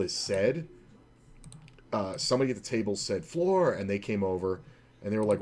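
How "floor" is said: a sharp loud shout of floor; shouted call. Retold or imitated. Player at poker table yells for the floor man, sharp loud shout.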